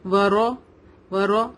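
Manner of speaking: ورا with a full, rounded "raw"; heavy ra. Shown as a demonstration. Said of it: "را heavy ہوگا". (ورا میں موٹا را)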